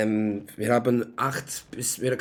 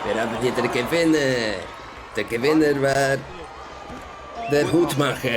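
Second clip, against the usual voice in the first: louder, building ringside winner call; booming winner announcement; 3 dB louder than usual. Acted. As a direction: proclaim the winner to the crowd.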